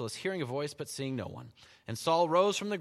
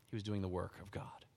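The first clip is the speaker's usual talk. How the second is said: whisper; 5 semitones lower, 8 dB quieter than usual. Real, not acted. Preacher drops to whisper.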